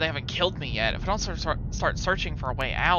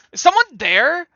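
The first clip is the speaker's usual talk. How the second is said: loud high menacing villain; hammy villain going for the kill; 8 semitones higher, 12 dB louder than usual. Acted. Voicing enemy attacking.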